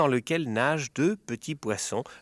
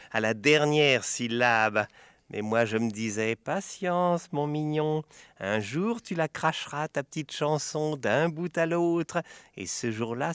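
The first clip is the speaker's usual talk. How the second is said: mocking witch; 2 semitones higher, 3 dB louder than usual. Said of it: "Elle ricane doucement".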